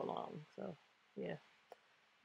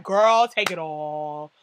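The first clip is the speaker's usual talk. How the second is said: drawn-out hype; 4 semitones lower, 3 dB louder, much slower than usual. Retold or imitated. Fan cheering on a favorite.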